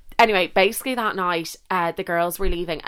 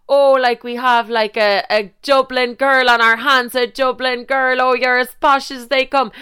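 imitating country boy; 5 semitones higher, 5 dB louder than usual. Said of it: "he was like".

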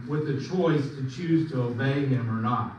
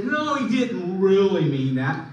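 challenging denial; 5 dB louder than usual. Retold or imitated. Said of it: "he challenges and says".

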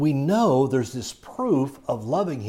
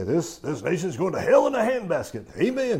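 mock congregant amen; 5 semitones higher than usual. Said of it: "You know, they'll say".

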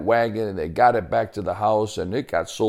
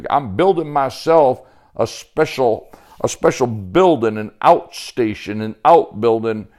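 lightly voiced folksy country talker; hearty backwoods Sebastian, eager; 5 dB louder than usual. Sebastian explains his building project to Joey, hearty. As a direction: play a woodsman proud of his plan.

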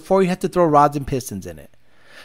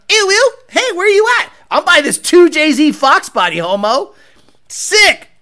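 high, nasal-free squeal of a hyped car guy; mock car bro; 8 semitones higher, 3 dB louder than usual. Mocking a car fan calling his buddy over, high and loud. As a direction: ham up a car bro spotting a 2JZ.

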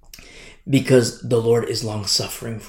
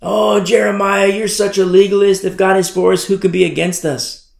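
a mild mock scoff at the prophet; mocking Judah; 5 semitones higher, 4 dB louder than usual. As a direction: Judah mocking Jeremiah, a touch louder. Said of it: "could be said of Judah".

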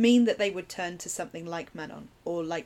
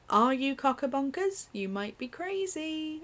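put-on incredulous teen; 7 semitones higher, slower than usual. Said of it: "her looking at Nancy going".

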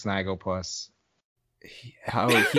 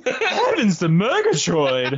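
Snagglepuss voice; 5 semitones higher than usual. Acted. Snagglepuss catchphrase quoted.

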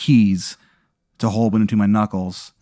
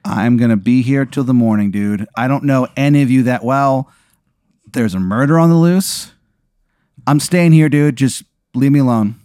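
refusing through door; 2 semitones higher, 4 dB louder than usual. Acted.

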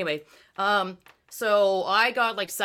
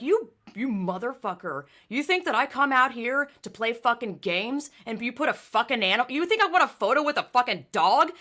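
angry rant; 4 semitones higher than usual. Retold or imitated. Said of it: "I'm like".

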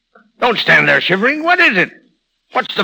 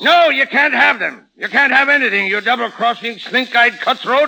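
higher pitched, hurling insults; angry refusal; 4 semitones higher than usual. Acted. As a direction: slam the door on him with scorn. Cappy refusing rival, still raging.

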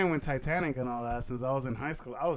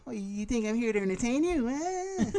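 higher, menacing movie mobster; tough gangster voice; 9 semitones higher than usual. Retold or imitated. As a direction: play the touchy wiseguy taunting the room. Quoting a gangster movie scene.

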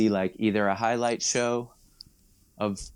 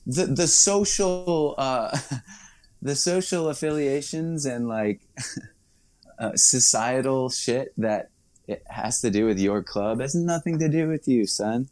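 mock lecture; 4 semitones higher than usual. Ranting at bar fan.

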